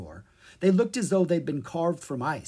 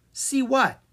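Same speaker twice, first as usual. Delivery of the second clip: puzzled question; 11 semitones higher, 5 dB louder than usual. Acted. Zed puzzled reply.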